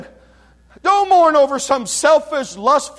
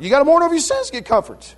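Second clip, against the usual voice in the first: "You gotta mourn over your sins to get comfort" rushed out higher and fast; fast, higher repeat; 4 semitones higher, much faster than usual. Shown as a demonstration. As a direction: fire the whole line again quickly, pitched up. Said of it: "It's, it's emphatic".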